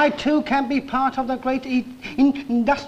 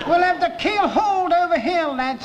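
designer voice; 6 semitones higher than usual. Retold or imitated. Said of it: "he said".

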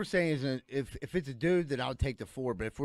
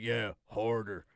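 mannish woman; 5 semitones lower, 4 dB quieter, slower than usual. Acted. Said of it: "a voice like a man".

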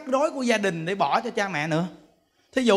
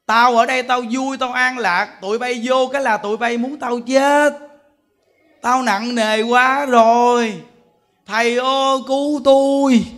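put-on higher, louder plea of a worn-out old father; old man crying out to his children and the monk; old father's plea; 4 semitones higher, 4 dB louder than usual. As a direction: voice the father begging for peace. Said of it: "người cha nói".

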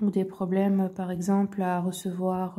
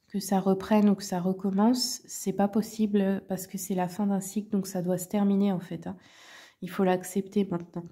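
talking through a cold; sick voice. Real, not acted. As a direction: voice worn down by illness. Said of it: "je suis un peu malade, Vous m'excuserez pour la voix".

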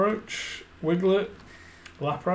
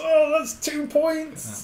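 excited; 12 semitones higher, much slower than usual. Real, not acted. Excited at card pull.

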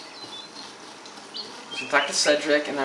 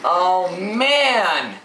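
louder, pitched-up wail of defeat; loud groan of dismay; 4 semitones higher, 5 dB louder than usual. Real, not acted. Gamer losing his progress, loud dismayed cry. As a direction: let it out like a loud lament.

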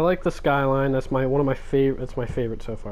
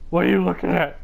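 louder demanding; 5 semitones higher, 7 dB louder than usual. Acted. Repeats question louder at character.

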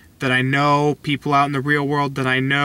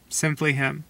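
quietly repeated; soft echo; 7 dB quieter than usual. Real, not acted. Echoed softly.

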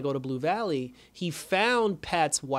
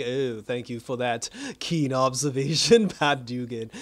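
slow, dry put-on villain voice; the Shade mocking; slower than usual. The Shade sneering at Pat's obvious remark, slow and dry. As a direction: drawl it out with mock politeness. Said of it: "and then he's just like".

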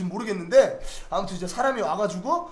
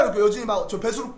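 ordinary talk

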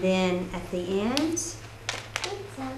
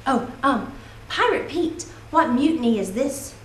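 hesitant mother trying a pirate voice; stammering pirate mom. Acted. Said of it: "stammered his mother in her best pirate voice".

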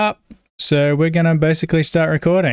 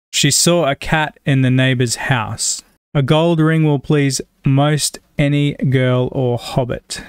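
measured read-aloud of test sentences; reading sample sentences. Shown as a demonstration. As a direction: read each sentence evenly and carefully, with slowed endings.

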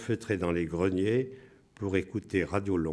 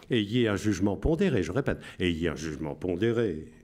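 radio announcer voice. Shown as a demonstration. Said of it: "Je vous lis avec la voix".

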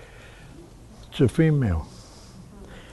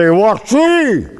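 "Wati?" pitched high, then falling; high inflection; 7 semitones higher than usual. Shown as a demonstration. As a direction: lift "Wati?" well up and let it drop. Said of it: "the inflection of my voice will tell her".

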